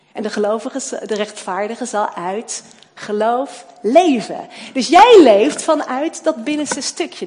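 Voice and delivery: loud, driving sermon delivery; preaching at full force. Acted. Preacher to congregation about new birth, preaching loudly. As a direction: hammer the truth home from the pulpit.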